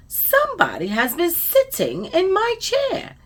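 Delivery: high-pitched, mildly exclaiming Mama Bear; sweet exclamation. A narrator's reading. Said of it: "exclaimed in her sweet, low voice".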